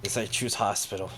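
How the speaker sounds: lightly voiced Russian thug; just a hint of a Russian accent; understated Russian-accented reply; slight Russian accent. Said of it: "little bit of a Russian accent".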